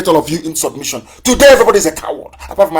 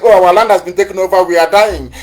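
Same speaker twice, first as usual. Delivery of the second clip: 1 mock complaint. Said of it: "Middle Belt are saying".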